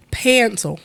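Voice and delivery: "Pencil" with a drawled vowel, like "pan-sul"; Southern "Pencil". Shown as a demonstration. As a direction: stretch the first vowel of "Pencil" toward "pan". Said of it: "'cause I said it like that".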